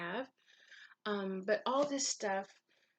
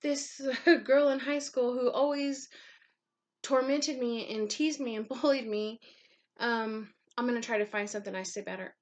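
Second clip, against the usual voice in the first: mock fake niceness; 3 semitones higher, 4 dB louder than usual. Vlogger mocking a fake forgiving attitude, sugary and half laughing. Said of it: "be fake and be like".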